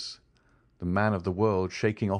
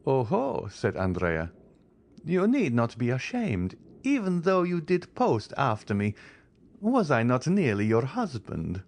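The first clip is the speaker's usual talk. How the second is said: mocking raillery; 5 semitones higher than usual. A narrator's reading. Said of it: "with this raillery".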